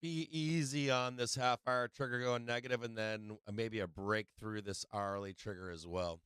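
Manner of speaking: hoarse, worn-out voice; tired, hoarse losing voice. Real, not acted. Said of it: "Man, I'm losing my voice".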